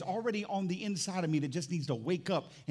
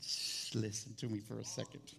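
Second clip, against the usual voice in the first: hushing; 6 semitones lower, 10 dB quieter than usual. Real, not acted. Hushing congregation mid-reading.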